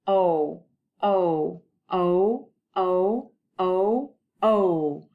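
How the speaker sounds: "O" said six times with the mouth rounded; vowel drill for the class; sound drill. Shown as a demonstration. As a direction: repeat "O" slowly as a long rounded vowel. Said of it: "Let's do it six times".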